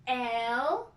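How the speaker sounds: "Elephant" in three separate beats; split into syllables. Shown as a demonstration. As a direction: break "Elephant" into el, e, phant. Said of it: "I divided just like this".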